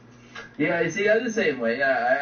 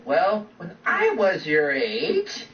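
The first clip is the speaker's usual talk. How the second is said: put-on higher, slow old-timer lecture with a laughing crack; mock old man; 5 semitones higher, much slower than usual. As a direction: drag it out like a crusty old grandpa. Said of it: "saying in that situation is like".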